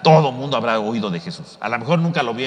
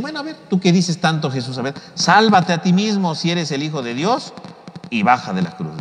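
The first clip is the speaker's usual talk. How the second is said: raised mocking dare; taunting challenge; 4 semitones higher than usual. Crowd daring Jesus to come down, mocking. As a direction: dare him with contempt. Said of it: "le dicen".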